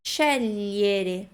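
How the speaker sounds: "scegliere" with gli said like Portuguese lhi. Shown as a demonstration. Teacher applies the LHI rule, careful pronunciation. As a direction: linger on the lh sound in "scegliere". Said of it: "como se fosse L H I".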